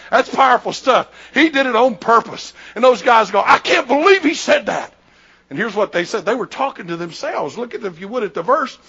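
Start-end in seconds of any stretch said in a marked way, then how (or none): 3.4-4.9 higher, incredulous outburst; shocked disbelief. Retold or imitated. Scribes react among themselves to Jesus' claim, in disbelief. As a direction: exclaim it as if scandalized.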